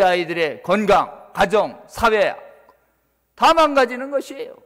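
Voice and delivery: loud, driving pulpit warning; forceful preaching. Real, not acted. Preacher warning parents and church elders about their children, forceful preaching. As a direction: pile up the dangers with mounting force.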